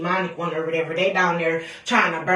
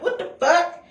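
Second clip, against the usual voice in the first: high laughing what the fuck; laughing disbelief; 9 semitones higher than usual. Retold or imitated. Laughing reaction to creepy dream.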